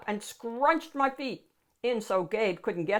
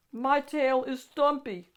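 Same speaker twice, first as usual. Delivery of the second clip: slow, louder and higher slurpy monster; slurping monster; 6 semitones higher, 6 dB louder than usual. A narrator's reading. Monster defends his tail to the child, slurping. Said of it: "Max slurped".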